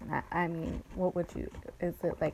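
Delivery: talking between sips of wine; words around a sip of wine; sipping wine. Real, not acted. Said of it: "I'm drinking, um, some wine".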